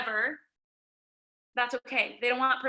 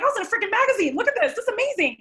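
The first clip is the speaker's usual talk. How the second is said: much higher, loud, gushing joy; thrilled and proud; 10 semitones higher, 6 dB louder, much faster than usual. Retold or imitated. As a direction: show off the magazine like you can't believe it. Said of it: "I was like".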